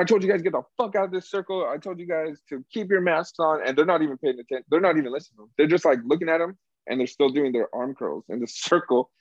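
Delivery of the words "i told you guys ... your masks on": higher, fast retold yelling; mock yell. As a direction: bark it out like an angry gym worker. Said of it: "he's yelling at them already".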